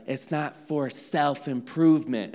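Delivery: a light take on the pastor's mic voice; a hint of the pastor's preaching voice; Pastor Gary's voice. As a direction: lightly mimic him on the mic. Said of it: "he'd do that voice".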